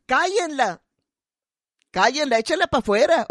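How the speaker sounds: a strong, rough-voiced demand to throw her out; loud heckle. Old man heckling the preaching woman, loud. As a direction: bark it like an angry heckler. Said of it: "con voz bien fuerte decía".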